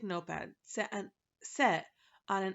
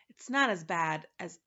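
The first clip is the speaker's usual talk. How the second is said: sympathetic; 2 semitones lower, 6 dB louder than usual. Acted. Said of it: "from his most sympathetic face".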